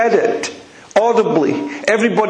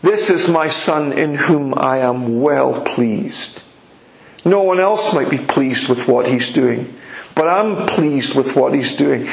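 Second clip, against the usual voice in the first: lower, slow, solemn voice of God; lower, slow fatherly proclamation; 5 semitones lower than usual. Retold or imitated. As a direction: speak as the Father, weighty and slow. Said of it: "And the father says".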